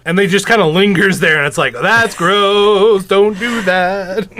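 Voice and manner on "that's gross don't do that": drawn-out, louder mock scolding; mock disgust. Co-host reacting to a lingering peeper, mock-disgusted. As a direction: stretch it out in exaggerated disapproval.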